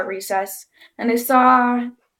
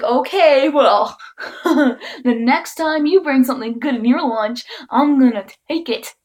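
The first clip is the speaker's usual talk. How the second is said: put-on laughing boy; 2 semitones higher than usual. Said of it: "And he's like".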